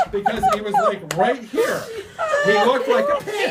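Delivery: high, loud, slow words through laughter; laughing shout. Real, not acted. Explaining the gecko sat like a pin, laughing shout. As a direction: shout it half laughing, half crying.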